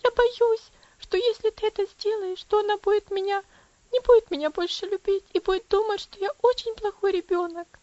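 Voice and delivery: put-on high and loud, desperate girl's wail; wailing in despair. Frightened girl pleads with father. (громко и высоко, причитая в отчаянии)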